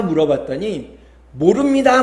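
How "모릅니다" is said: high, louder mock chorus reply; chorus answer. Monks all answer the preacher together, high mock chorus. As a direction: imitate a roomful answering as one. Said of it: "모두가 다 떼창을 하는 거예요".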